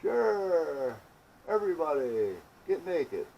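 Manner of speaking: loud, high, drawn-out mock cheer; mock rallying call. Joking to everybody about shedding like trees, mock rallying call. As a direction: call it out high and long, falling away.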